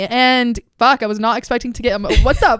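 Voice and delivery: laughing through sudden tears; getting emotional. Real, not acted. Host thanking her mentor, tearing up and laughing. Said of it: "I'm getting emotional right now".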